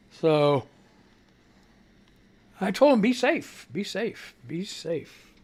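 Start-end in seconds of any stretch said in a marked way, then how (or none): 3.0-5.3 be safe said three times, softer each time down to near hush; tender repeat fading to a murmur; fading caring repeat. Retold or imitated. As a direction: trail off gently as you say goodbye. Parting advice, fading.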